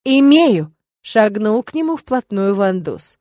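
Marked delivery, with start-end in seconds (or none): 0.1-0.7 shout. Acted. Quarrel between boys.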